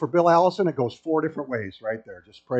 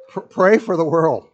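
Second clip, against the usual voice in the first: louder appeal; 2 semitones higher, 7 dB louder than usual. Shown as a demonstration. Preacher repeats his call to the congregation, louder. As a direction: pray for the world, pushed out louder.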